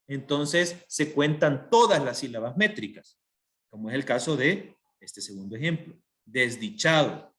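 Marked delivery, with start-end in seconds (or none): 6.3-7.3 "desdichado" slowly, with weight on "cha"; stress on penultimate syllable. Shown as a demonstration. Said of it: "lleva acento en la penúltima sílaba". ("desdichado" pausado, acentuando "cha")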